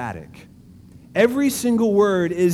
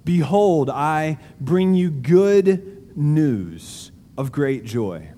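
scripture reading; slower than usual. Acted. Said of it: "Look back down at".

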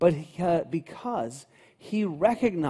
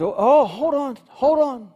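sudden stop; 8 semitones higher, 7 dB louder than usual. Pretend. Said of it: "And he goes".

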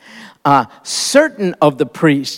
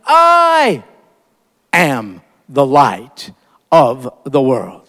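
solemn proclamation; 4 semitones lower, slower than usual. Retold or imitated. Jesus announcing to the festival crowd, a solemn proclamation. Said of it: "In a loud voice, he stood up and proclaimed".

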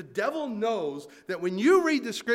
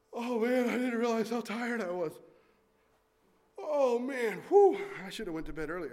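sleepy reader; 2 semitones higher than usual. Pretend. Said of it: "I'm not trying to make you guys yawn".

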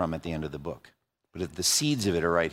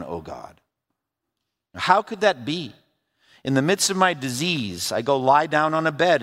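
a touch of Job's anguish, lightly voiced; Job's lament; 4 semitones higher than usual. Job questioning God about his suffering, lightly voiced anguish. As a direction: speak as Job, pleading with God.

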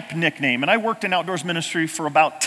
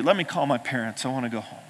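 begging; 6 semitones lower, 8 dB quieter than usual. Retold or imitated. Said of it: "I begged you".

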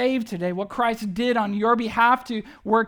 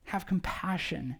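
pleading father; 3 semitones lower than usual. Retold or imitated. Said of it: "he makes this one plea".

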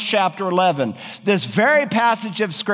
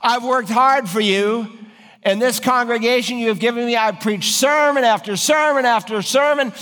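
a mildly higher, aggrieved prophet pleading his case; Elijah complaining; 3 semitones higher than usual. Acted. Preacher voices Elijah protesting to God, mildly aggrieved. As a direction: pour out a weary complaint to the Lord. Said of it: "He said".

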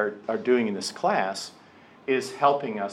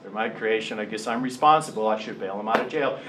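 grudging; 4 semitones lower, 4 dB quieter than usual. Pretend. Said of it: "He didn't go".

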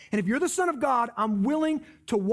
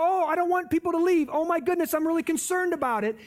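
higher, fretting plea; hammed-up anxious backpedal, higher; mock worried Jesus; 5 semitones higher, faster than usual. Preacher imagining a worried Jesus, fretting. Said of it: "He didn't go".

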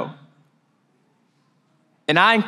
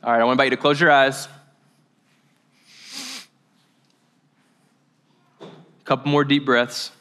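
calm, slightly lowered voice with long pauses; guided meditation; 2 semitones lower than usual. Real, not acted. Pastor invites listeners to close their eyes, calm guidance. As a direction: ease them gently into stillness.

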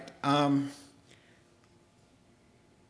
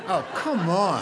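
amused disbelief; laughing scoff; 3 semitones higher than usual. Real, not acted. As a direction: come on with a laugh, dismissive. Scoffing at the complaint.

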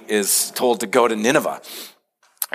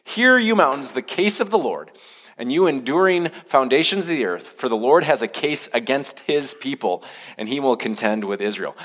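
higher, declaiming scripture as God's summons; voice of the Lord; 4 semitones higher than usual. Acted. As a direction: proclaim it like a courtroom summons from on high. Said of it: "hear what the Lord has to say".

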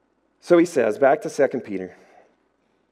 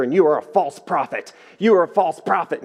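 retold scream; 3 semitones higher, 3 dB louder than usual. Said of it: "he's, like, screaming in the phone".

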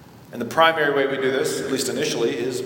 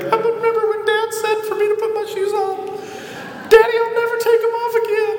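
high hammed-up weepy kid voice, much higher; mock tearful child. Kid at dad's casket, mock tearful high whine. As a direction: whine it like a grieving little kid, overdone. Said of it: "stand by the casket tearfully and be like".

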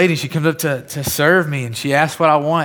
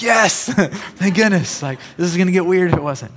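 relieved laugh; 4 semitones higher than usual. Retold or imitated. Relief after stranger says yes.

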